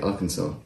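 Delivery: Arkansas as "AR-kən-saw"; correct Arkansas pronunciation. Shown as a demonstration. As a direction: end Arkansas in "saw", final S silent. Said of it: "you pronounce it like".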